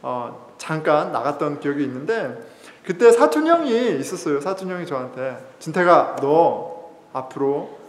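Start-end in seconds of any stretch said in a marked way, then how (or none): 5.6-7.8 stern cousin. Retold or imitated. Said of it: "굉장히 엄하게 저한테 얘기했던".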